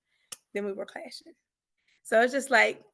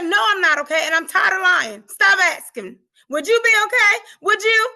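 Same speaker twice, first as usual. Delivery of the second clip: loud, higher retold snap at the receptionist; snapped outburst; 7 semitones higher, 9 dB louder than usual. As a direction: let it burst out, fed up. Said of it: "I snapped".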